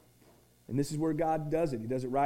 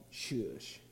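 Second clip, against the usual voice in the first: hushing; 7 semitones lower, 13 dB quieter than usual. Retold or imitated. Crowd hushing blind Bart.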